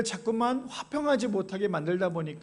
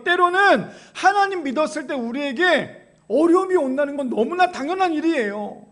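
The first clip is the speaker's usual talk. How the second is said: raised, louder sermon delivery; impassioned preaching; 5 semitones higher, 6 dB louder than usual. Real, not acted. Preacher to congregation about faith in hardship, raised and insistent. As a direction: press the challenge on the congregation.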